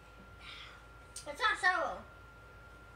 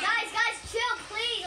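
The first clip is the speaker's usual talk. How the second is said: loud, higher plea to calm down; 4 semitones higher, slower than usual. Real, not acted. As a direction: call out over the noise. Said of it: "I asked nicely".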